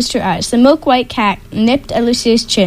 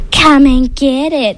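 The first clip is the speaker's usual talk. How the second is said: taunting troll; 3 semitones higher, 3 dB louder than usual. Acted. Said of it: "the troll taunted".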